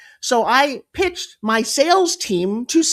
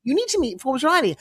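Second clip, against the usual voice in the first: put-on higher-pitched British accent; British agent voice; 4 semitones higher than usual. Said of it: "it was good enough that I became my own manager".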